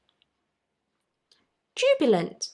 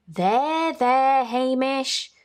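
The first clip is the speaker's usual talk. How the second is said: consoling; 3 semitones higher, slower than usual. A narrator's reading. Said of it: "said Missus Grinling consolingly".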